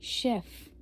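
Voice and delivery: शेफ़ whispered, final f clearly sounded, falling; whispered French chef. Shown as a demonstration. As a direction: breathe शेफ़ with a crisp f at the end. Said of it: "शेफ़ में हम एफ़ pronounce करेंगे".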